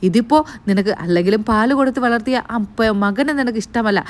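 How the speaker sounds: very angry scolding. Retold or imitated. Grandmother accuses daughter-in-law of theft, retold fury. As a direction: grandmother tearing into her daughter-in-law, hammed-up. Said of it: "വല്ലാത്ത ദേഷ്യത്തോടു കൂടിയാണ്".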